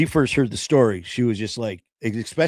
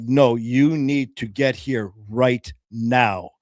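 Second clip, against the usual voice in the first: firm; slower than usual. Retold or imitated. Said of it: "being a little firm".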